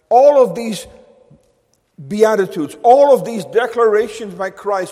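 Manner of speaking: preacher's emphatic build. Real, not acted. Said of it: "I want to emphasize again".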